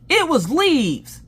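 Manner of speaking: high, loud, drawn-out outburst; hammed-up exasperated cry; retold exasperation. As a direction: stretch each word out in disbelief. Husband's exasperated reveal.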